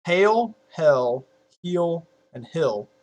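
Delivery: "Hail, hell, heel, and hill" listed slowly; four-word vowel demo. Shown as a demonstration. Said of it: "All four of those are the same pronunciation".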